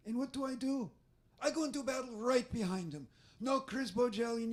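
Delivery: put-on stern foreign-accented lecture; Israeli accent. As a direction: tough commando accent, matter of fact. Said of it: "So sometimes I try to mimic her".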